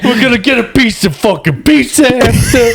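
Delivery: high, pumped-up New York gym instructor; New York coach. Pretend. Friend imitates New York Orange Theory coach, hyped. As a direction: hype the class like a Jersey trainer. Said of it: "if they have a fucking New York accent".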